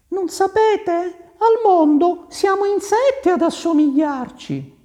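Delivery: very high, loud lady's voice; airy lady. Acted. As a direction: brush it off in a high-pitched lady voice. Caterina brushes off the resemblance. (voce di dama, acutissima)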